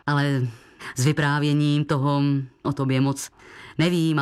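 low, hesitant foreign gentleman with hm pauses; deep, hesitant foreign guest voice; Mr Bono. A narrator's reading.

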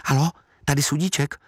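a hint of a nervous boy picking up; boy answering phone.

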